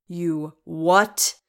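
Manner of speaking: loud, disbelieving rising yelp. A narrator's reading. Thorin reacts to his sister giving away the stone, yelping. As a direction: yelp the question in outrage. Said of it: "Don't yelp so".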